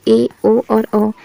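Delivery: ए, ओ, औ each held long, half speed; drawn-out long vowels. Shown as a demonstration. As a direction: stretch every vowel to twice its length. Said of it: "उदाहरण के लिए". (दीर्घ स्वर खींचकर, धीरे-धीरे)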